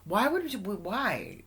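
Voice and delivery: tripping over the question; stuttering. Real, not acted. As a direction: stumble and restart on "why". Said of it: "I'm stuttering".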